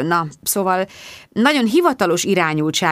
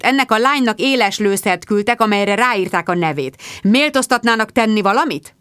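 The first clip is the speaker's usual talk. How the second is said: indignant demand; 4 semitones higher than usual. Acted. Mark angrily demanding the police act.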